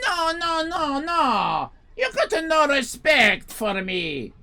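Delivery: high, loud wailing protest; angry owner. Retold or imitated. Owner wailing at customers about respect. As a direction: cry out like you're offended. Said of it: "he say".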